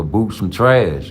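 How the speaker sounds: drawn-out dismissive put-down; slow imitating scoff; slow mocking quote. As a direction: drag it out, sneering. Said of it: "He say".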